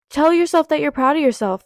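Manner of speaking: holding back tears; getting teary-eyed. Real, not acted. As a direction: voice welling up with tears. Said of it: "getting teary-eyed".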